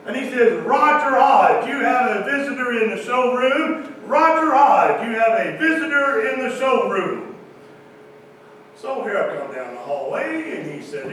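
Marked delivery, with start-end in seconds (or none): 0.7-7.4 intercom page. Retold or imitated. Boss paging Roger over the dealership intercom, booming call. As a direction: call it like a salesman on the PA. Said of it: "He gets on the intercom".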